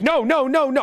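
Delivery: rapid, high repeated refusals; panicked no's. Retold or imitated. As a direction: deny everything in a rush. Panicked denials to security prompts.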